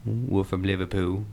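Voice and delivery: lightly voiced Liverpool accent. Shown as a demonstration. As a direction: introduce the band with a hint of Liverpool accent. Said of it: "the Liverpool".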